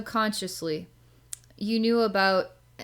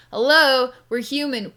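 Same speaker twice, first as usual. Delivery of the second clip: incredulous retort; 5 semitones higher, 8 dB louder than usual. Acted. Mock retort to masculine energy.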